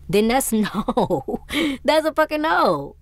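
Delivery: high, drawn-out indignant no; emphatic refusal. Real, not acted. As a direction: refuse outright, pitch jumping up and stretched. Exasperated final verdict on the reading.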